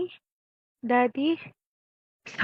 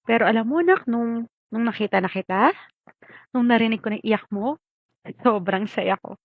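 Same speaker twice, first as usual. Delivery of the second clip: louder, bright joy building into a laugh; joyful recollection; 2 semitones higher, 7 dB louder than usual. Acted. Mother telling her child of the birth, joyful and loud. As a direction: relive the happiest day, laughing at the end.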